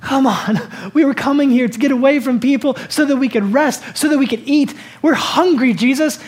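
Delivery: mock-complaining to Jesus; lightly played tired, hungry disciple; hangry disciples. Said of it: "They're probably hangry".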